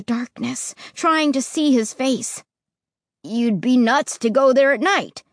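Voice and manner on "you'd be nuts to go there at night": declaring. Acted. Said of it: "he declared".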